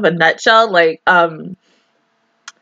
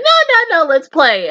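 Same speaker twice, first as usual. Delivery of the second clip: playful protest; 6 semitones higher than usual. Acted. Voices playful bandmates refusing practice.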